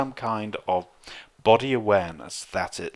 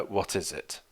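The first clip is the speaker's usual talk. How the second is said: forced politeness; 7 dB quieter than usual. Retold or imitated. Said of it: "and we say".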